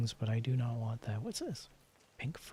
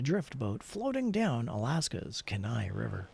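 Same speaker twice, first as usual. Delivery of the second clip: a slightly louder storyteller read; story narration; 4 dB louder than usual. Acted. Player reading the in-game fishing story aloud in a storyteller voice. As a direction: read it like a true-adventure tale.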